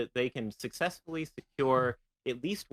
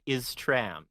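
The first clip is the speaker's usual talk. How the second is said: thick Russian-style Soviet accent on "Is tram". Shown as a demonstration. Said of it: "Soviet accent, just say, like".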